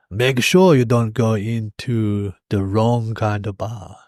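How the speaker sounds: slow, measured imitation of an airport man; Hans. Old mate at the airport warning travellers, slow imitated caution. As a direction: draw out the warning in an old mate's voice. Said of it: "He was like, Hans or whatever".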